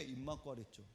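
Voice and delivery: low, quiet, stern retort; overbearing reprimand. Shown as a demonstration. Doctor scolds the patient instead, overbearing. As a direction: imitate a cold telling-off, pitched low. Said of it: "완전 이렇게 고압적인 자세로 내려다보면서".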